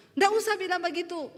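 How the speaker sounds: mock impatient yell; retold collector's yell. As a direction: cut the debtor off, imitating a collector. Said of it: "Debt collector datang di rumah teriakin saya".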